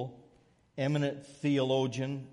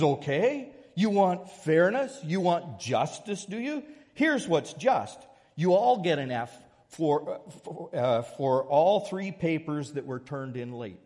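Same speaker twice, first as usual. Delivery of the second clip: stern professor; 4 semitones higher, 4 dB louder than usual. Retold or imitated. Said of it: "He says".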